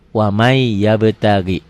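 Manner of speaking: "Wamai yabtagi" slow, with a held Y; merged recitation. Shown as a demonstration. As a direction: hold the end of "Wamai" into "yabtagi". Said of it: "dibacanya wamai".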